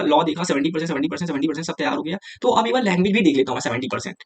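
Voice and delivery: quick, run-together imitation of a student; rattled-off checklist. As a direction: rattle through it like ticking off subjects. Voices student ticking off subjects. (जल्दी-जल्दी गिनाते हुए)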